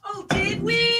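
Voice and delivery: high, mock-surprised and sarcastic. Real, not acted. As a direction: feign delighted surprise in a high little voice. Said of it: "that felt, like, super".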